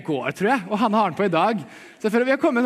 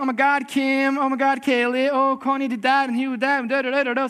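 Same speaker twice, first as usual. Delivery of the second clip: a hint of a gushing reality-star voice, a bit higher; lightly mocking Kardashians; 5 semitones higher than usual. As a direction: lightly parody the gossip drama. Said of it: "hver episode er litt sånn".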